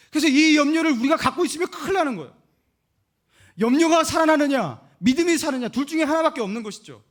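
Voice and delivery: loud, high preaching at full force; preacher raising his voice over the danger of worry; fervent preaching. Acted. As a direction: drive the warning home to the congregation.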